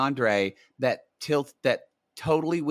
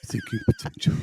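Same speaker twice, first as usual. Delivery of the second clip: much higher title, through a laugh. Real, not acted. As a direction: say it while cracking up. Repeating the show title.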